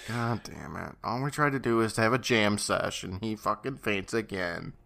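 soft, deflated grumble; weary mock exasperation; fed-up. Co-host voicing bandmates after Larry faints, fed up.

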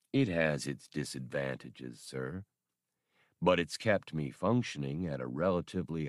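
low, polite, even droid voice. Acted. Old labor droid politely answering Han, low and even.

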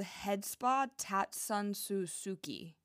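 careful, slow attempt at a Japanese accent; best Japanese accent. Shown as a demonstration. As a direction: sound the name out in a light Japanese accent. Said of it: "That was my best Japanese accent".

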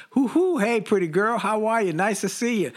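two single guys lightly hamming up street flirting; mock catcalling. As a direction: toss out a playful flirty holler. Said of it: "kind of cat whistling".

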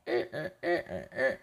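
put-on short, soft drunken grunts; imitated drunk noises. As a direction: mimic a tipsy rooster with little repeated noises. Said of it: "Pablito está borracho, está como". (ruiditos imitando a un borracho)

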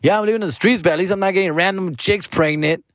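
high, smug mock brother; hammed-up smug sibling. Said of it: "But he's like".

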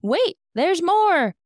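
high, loud, slow TV pitchman; infomercial voice. Acted. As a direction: sell it like a late-night infomercial. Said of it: "I sound like one of those terrible infomercials".

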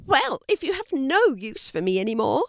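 high-pitched little fish, bargaining; fish character. Acted. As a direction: speak up as a small high-voiced fish. Narrator voices the fish.

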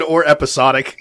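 "episodic" said with an "ah" in the third syllable, epi-SAH-dic; alternate pronunciation. Shown as a demonstration. Co-host repeats himself after a "huh?", correcting with epi-SAH-dic. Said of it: "I say episodic".

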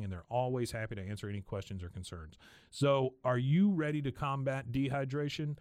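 podcast sponsor read; host-read commercial. Acted. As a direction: read the ad copy in an easy, even sell. Reads a sponsor ad.

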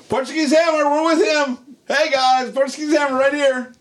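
high-pitched mock call to passers-by; calling out to crowd. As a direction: shout it like a proud fan. Retells calling out at match.

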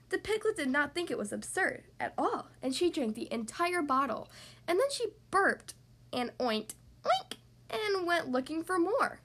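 animated storybook reading with lively pitch swings; story narration for children. Acted. Narrator tells children about the piglet's meal, animated storytelling. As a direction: read it playfully to small children.

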